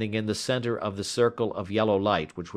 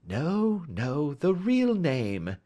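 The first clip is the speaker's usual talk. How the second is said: higher, slow, gently coaxing; sweet; 8 semitones higher, much slower than usual. A narrator's reading. Detective to a man using an alias, sweetly coaxing. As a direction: correct someone sweetly. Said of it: "said Holmes sweetly".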